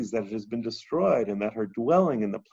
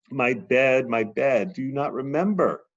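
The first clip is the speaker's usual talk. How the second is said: louder, pleading cry to the bed; lamenting goddess; 5 semitones higher, 4 dB louder than usual. Acted. Teacher voicing the goddess crying to her bed, pleading lament. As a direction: mourn the lost union aloud.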